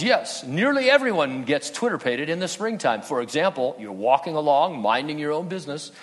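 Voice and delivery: a worldly owl gushing about spring fever and getting carried away; preacher hamming up Owl's giddy speech on falling in love; Friend Owl, love-struck. Retold or imitated. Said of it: "Owl says".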